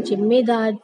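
जिम्मेदार mispronounced as "jimmedaar"; j sound in जिम्मेदार. Shown as a demonstration. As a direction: imitate people starting जिम्मेदार on a j. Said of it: "गलत उच्चारण हुआ".

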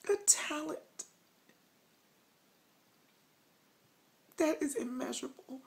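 snotty crying. Pretend. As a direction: fake sobbing, whispery and shaky. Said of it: "Y'all thought I was crying. Not".

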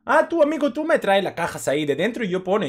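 high, loud mock African accent, broken Spanish. Joking with a night-shift coworker, in a put-on high African accent. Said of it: "Y empezamos a hablar así".

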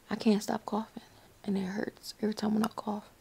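hushed whisper. Real, not acted. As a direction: whisper so nobody wakes. Late-night whisper.

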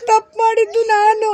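a touch of tears while confessing; acted tearful confession. Shown as a demonstration. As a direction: demonstrate owning up with a crying voice. Coach models tearful confession. (ಅಳುತ್ತಾ ತಪ್ಪೊಪ್ಪಿಕೊಳ್ಳುವ ನಟನೆ)

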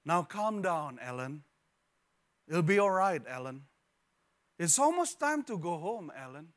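measured, soothing mother voice; a tired mom staying calm in the store; calm patient mother. Retold or imitated. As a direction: keep it gentle and patient through the chaos. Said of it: "the mother was heard saying out loud".

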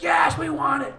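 high, loud eager shout; eager group. Retold or imitated. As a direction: answer like a fired-up crowd. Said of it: "the group's like".

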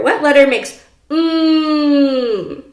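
usual speaking voice

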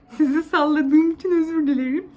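bouncing as the camera shakes; on a bumpy road. Real, not acted. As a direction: voice jolted by shaking. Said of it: "Sallanıyoruz". (sarsıntılı yolda konuşur gibi)

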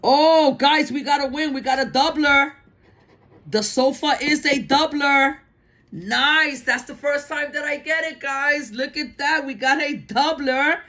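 high, thrilled squeal of a win; shrieking jackpot winner. Real, not acted. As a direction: burst out with real excitement. First-ever doubler win on ticket.

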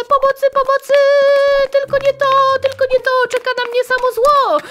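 mock panic. Fleeing the dentist in game.

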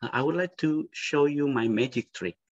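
lightly voiced magician presenting a trick; magician patter. Shown as a demonstration. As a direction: announce the trick like a performer. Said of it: "Gitu kan".

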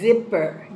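"Zipper" low and clearly articulated; careful sounding-out. Shown as a demonstration. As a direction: say "Zipper" carefully, with a long buzzing Z. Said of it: "Now listen".

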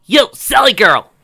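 high, loud, slow call. Acted. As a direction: call across the party. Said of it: "he called as she walked up".

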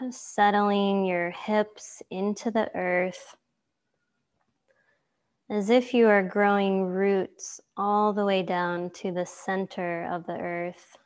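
calm yoga teacher guiding a relaxation; guided meditation. Acted. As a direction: lead them gently into stillness, unhurried.

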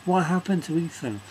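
mock surprise. Asking what happened to Ethan, mock astonished. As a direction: ham up shock at the change. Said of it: "It's just like".

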